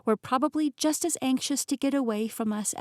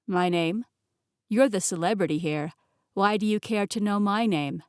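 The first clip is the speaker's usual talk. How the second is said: lightly voiced amused man; 3 dB louder than usual. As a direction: play him amused and easy. Male character Golden Eyes speaks.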